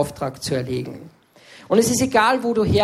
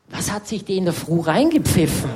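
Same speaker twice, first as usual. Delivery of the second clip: laughing aside. Retold or imitated. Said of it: "ich hab mir immer gedacht".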